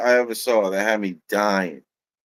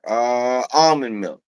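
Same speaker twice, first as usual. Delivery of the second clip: higher, louder American customer; American accent; 4 semitones higher, 4 dB louder than usual. Retold or imitated. Customer ordering almond milk, American accent. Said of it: "talking, you know, with an American accent".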